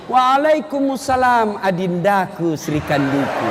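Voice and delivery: slow, laughing, loving answer; husband answering his wife slowly and lovingly; tender husband reply. Retold or imitated. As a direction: dote on her back. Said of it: "Lalu Nabi bilang suaminya".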